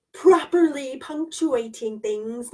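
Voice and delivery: slow, over-careful articulation; measured, by-the-book diction; careful enunciation. Shown as a demonstration. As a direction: pronounce each word properly and slowly. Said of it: "Not everyone talks like this".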